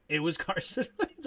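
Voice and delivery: laughing mid-sentence; can't keep straight face. Real, not acted. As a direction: crack up halfway through the praise. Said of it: "can't even say that with a straight face".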